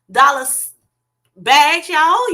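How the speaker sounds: loud, high call-out to the crowd; excited hype. Real, not acted. Host plugging a fellow creator, excited. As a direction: shout it out with a rising lift.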